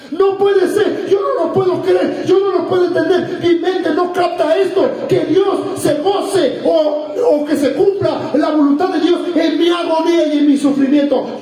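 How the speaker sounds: high, insistent protest; acted disbelief. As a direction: cry out in preacher's bewilderment. Preacher acts out disbelief at suffering.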